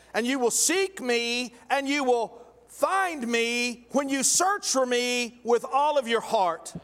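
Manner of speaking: drawn-out scripture emphasis; slow and build to a shout; slow preaching. Acted.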